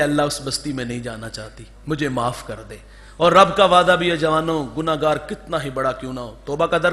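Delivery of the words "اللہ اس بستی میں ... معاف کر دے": tearful plea. A narrator's reading. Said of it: "اب رو کے کہتی ہے".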